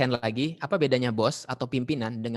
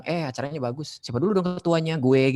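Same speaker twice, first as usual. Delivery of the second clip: mock boasting; 3 semitones higher, 3 dB louder than usual. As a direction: brag like a self-satisfied chairperson. Meniru ketua yang membanggakan diri. (menirukan ketua yang sombong)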